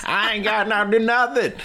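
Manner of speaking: cartoonish Southern hick voice; put-on redneck accent. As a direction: protest in a hammed-up Southern twang. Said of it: "You don't even sound like that".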